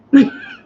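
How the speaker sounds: high loud laugh; burst of laughter. Real, not acted. Laughs at own mishap.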